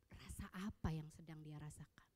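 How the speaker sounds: hushed emphasis; whisper. Real, not acted. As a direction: lean in and whisper the point. Menekankan hal penting dengan bisikan. (berbisik menekankan pentingnya)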